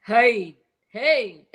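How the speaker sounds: loud Chicago Italian "hey"; Chicago Italian accent. Acted. Woman mimics an Italian from Chicago, loud Chicago accent. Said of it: "some Italian from Chicago going".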